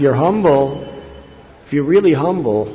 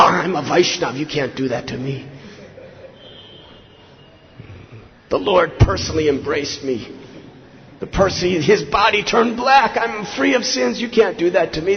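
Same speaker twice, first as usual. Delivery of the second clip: hammed-up outrage, climbing higher; mock indignant protest; 4 semitones higher than usual. What Madhai didn't say when struck, acted as mock indignation. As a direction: act out a self-important complaint, building in pitch.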